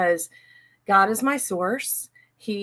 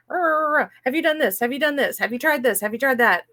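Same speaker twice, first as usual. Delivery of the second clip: higher, mock-nagging wife firing off questions; 5 semitones higher than usual. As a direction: pester him lightly, half-joking nag. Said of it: "being the nagging wife going".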